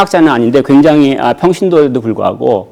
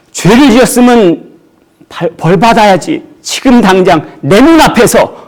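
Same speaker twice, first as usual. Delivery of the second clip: raised, insistent demand for punishment; mock indignant Jonah; 7 semitones higher than usual. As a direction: voice Jonah's self-righteous outrage. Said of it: "그게 자기 생각이에요". (분노한 요나 흉내)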